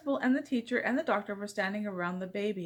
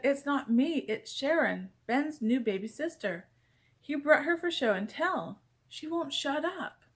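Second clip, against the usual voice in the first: flustered teacher; 5 semitones higher than usual. Acted. Teacher flustered blaming baby.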